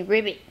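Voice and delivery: frog ribbit. Shown as a demonstration. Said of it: "Or does it say".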